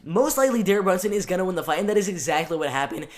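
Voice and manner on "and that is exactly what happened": voice crack. Real, not acted. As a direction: voice cracking mid-sentence. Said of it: "sorry, voice crack".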